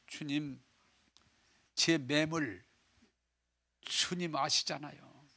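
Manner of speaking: a quiet ashamed answer; hushed humble reply. Acted. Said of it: "막 소리쳐서 얘기 못하겠어".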